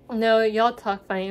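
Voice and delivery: teasing imitation of Minnesotan relatives; Minnesotan accent. Northern relatives teasing southern cousins, Minnesotan accent. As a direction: tease back in a Minnesotan accent. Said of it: "And they always say".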